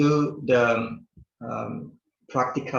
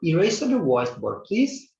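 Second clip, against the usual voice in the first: polite request; 6 semitones higher than usual. Shown as a demonstration. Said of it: "lebih bijaksana kalau misalnya kalian mengatakan".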